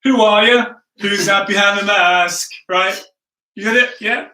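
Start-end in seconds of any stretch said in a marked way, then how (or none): 0.0-2.5 louder, game-show style who-are-you; playful mock show-host question; mock Masked Singer call. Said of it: "you do that thing where you, you kind of say".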